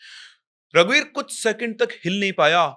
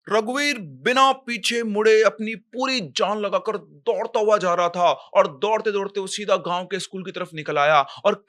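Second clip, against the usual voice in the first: higher-pitched, urgent storyteller; dramatic story narration; 4 semitones higher than usual. A narrator's reading. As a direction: drive the attack scene forward with punched words. Narrates the escape. (जोशीले, नाटकीय अंदाज़ में कहानी सुनाते हुए)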